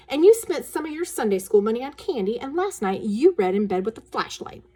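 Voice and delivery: put-on threatening girl. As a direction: list his crimes like a little blackmailer. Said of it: "Wendy said".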